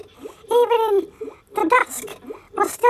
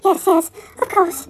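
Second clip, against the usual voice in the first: tearful. Acted. Tearful farewell, cry heard.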